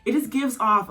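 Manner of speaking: high, loud squealing gush; overwhelmed by cuteness. Real, not acted. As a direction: squeal with delight at how cute they are. Gushing over cute couple.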